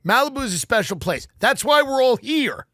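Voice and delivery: proud, lofty public address; a resident speaking up at a town meeting; earnest speech. Pretend. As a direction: tell the room it matters. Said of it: "I just look around and I go".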